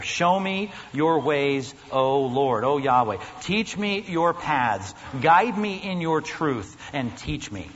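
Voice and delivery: slow, weighty reading of the psalm; scripture reading. Acted. Pastor reading the psalm to his church, slow and weighty. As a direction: draw out each plea to the Lord. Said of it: "Here's what the text says".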